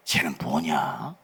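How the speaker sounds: low, slow, unimpressed; God's disapproval. Acted. Pastor voicing God, unimpressed by a lazy servant, low and slow. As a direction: drawl it out like a let-down God.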